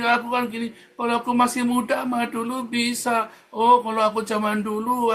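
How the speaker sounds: mock the complaining believer, loud and high; mocking grumbler. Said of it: "kamu menggerutu".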